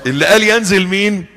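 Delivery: normal talking voice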